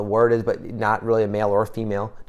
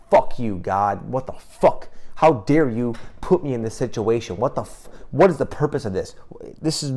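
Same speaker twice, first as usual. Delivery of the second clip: retold yelling at God. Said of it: "I started yelling up at the".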